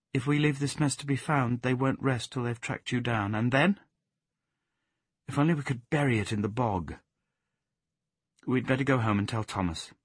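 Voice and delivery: a hint of a practical, worried tone; altered voice. Plaxi planning with the dog what to do. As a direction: switch to planning, a touch worried. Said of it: "said in an altered voice".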